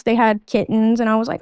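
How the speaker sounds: ordinary talk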